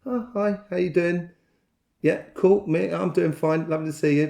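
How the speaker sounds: high, bright friendly greeting to a stranger; chirpy hello to someone you pass; cheery passing hello. Shown as a demonstration. Greeting a passer-by in the street, cheery and high. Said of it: "just sort of say".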